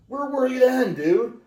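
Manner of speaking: a put-on voice asking where they were back then; mock exasperated dude. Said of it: "I'm kinda like".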